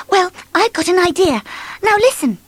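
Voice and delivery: high, bright and keen; eager Miss Sunshine. Acted. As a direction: lean in, plotting. Sunshine shares her plan.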